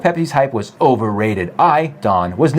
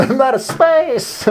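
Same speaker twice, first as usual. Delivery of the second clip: mock whine; 11 semitones higher, slower than usual. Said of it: "and he's like".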